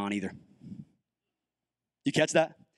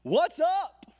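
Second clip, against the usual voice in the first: higher, slow, pleading cry to God; exasperated Elijah; 14 semitones higher, 5 dB louder, much slower than usual. Retold or imitated. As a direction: ask God why like a bewildered prophet. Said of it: "Elijah's like".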